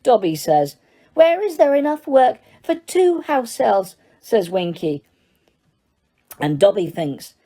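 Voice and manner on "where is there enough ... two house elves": high elf voice. Acted. Winky voiced.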